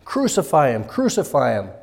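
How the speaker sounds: restrained imitation of a chanting crowd; mild mock crowd cry. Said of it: "deafening as they cried out".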